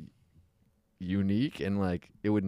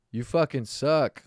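louder, higher, drawn-out mock heckle; heckler's shout; 6 semitones higher, 5 dB louder, slower than usual. Comic imitating someone heckling at a mic, shouting out. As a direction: shout it slowly like a bar heckler. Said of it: "somebody would shout out".

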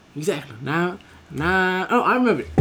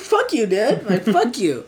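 raised-pitch mock cursing; angry customer; 4 semitones higher, slower than usual. Customer swearing at the pizza worker, mock angry. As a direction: curse him out like an irate caller.

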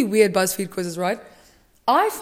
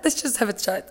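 same line again, softer and calmer; soft repeat; 6 dB quieter than usual. Pretend. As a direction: drop it to a calm aside.

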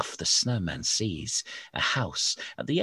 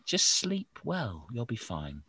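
mock reassuring; 3 semitones higher, 4 dB quieter than usual. Mock reassurance after scare.

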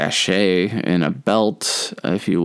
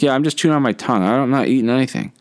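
quick, high mock-nervous insistence; 5 semitones higher, much faster than usual. Flustered pupil repeats his fib to the teacher, mock nervous. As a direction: rush out the excuse, pitched up. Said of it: "I'm all nervous".

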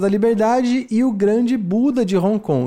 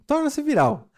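disdainful; 6 semitones higher than usual. Retold or imitated. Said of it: "Ele falou com desdenhos aqui".

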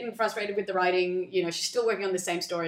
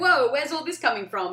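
higher, louder startled protest; taken aback; 5 semitones higher, 5 dB louder than usual. Acted. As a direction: act caught off guard by her accusation. Acting him taken aback in quarrel.

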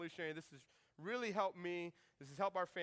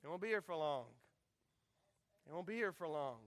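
wistful parents. Retold or imitated. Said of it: "every parent here ... you say".

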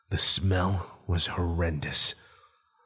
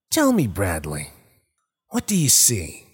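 creature voice. Acted. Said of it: "the creature asked".

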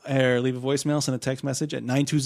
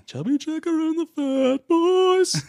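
radio DJ voice; 3 dB louder than usual. Pretend. Hyping a fake radio bit.

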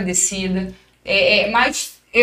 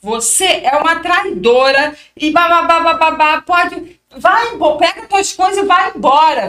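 building to a raised voice: get out; retold harsh scolding, louder as it goes; mock coach ordering her out; coach's angry verdict; 4 semitones higher, 4 dB louder than usual.

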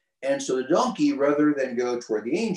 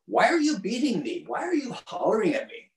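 much higher, strange pleading donkey voice; 9 semitones higher than usual. Retold or imitated. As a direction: squeak it out like a hurt, bewildered donkey.

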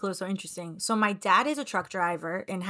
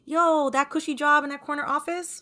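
higher-pitched indignant listing of complaints; mock confession; 5 semitones higher than usual. Daughter imagining telling her hardworking dad, mock-indignant confession.

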